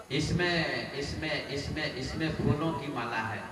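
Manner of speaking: soft, halting stammer on the first word; nervous hesitation. Acted. Servant passes off snakes as a garland, nervously hesitant. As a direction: stumble quietly as if hiding something.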